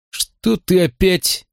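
slow, high, irritated bark. A narrator's reading. Deputy snaps at the boy, high and drawn out. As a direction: snap at the kid, out of patience. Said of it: "рявкнул помощник Бьютимен".

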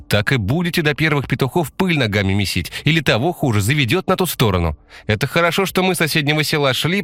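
put-on high, chattering village girl; girl's patter. A narrator's reading. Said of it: "скороговоркой ответила одна из девушек". (высокая девичья скороговорка)

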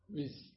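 short demonstrated shoo; cat-shooing bis. Shown as a demonstration. Teacher showing how we chase cats away, short shoo. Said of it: "وعندما نطردها".

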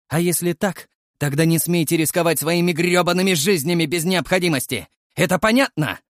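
cold measured words rising to loud anger; cold and clipped, building. Acted. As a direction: spell out each word, then explode. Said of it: "продолжил холодным тоном, чеканя каждое слово". (холодно, чеканя слова, до крика)

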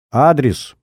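a curt order; commanding. Acted. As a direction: snap the one word like a whip. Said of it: "хлестнул приказной тон".

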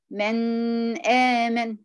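"من آمن" with the nasal noon held far too long; wrong demo: nasal held too long on "من"; overlong ghunna. Shown as a demonstration. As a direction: stretch the noon of "من" well past its length. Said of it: "تقول مثلًا".

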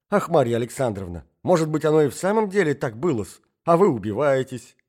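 sugary, mock-sympathetic voice; a lightly voiced sweetly spiteful lady; honeyed. A narrator's reading. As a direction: drip honey over the poison. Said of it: "самым медоточивым голосом".

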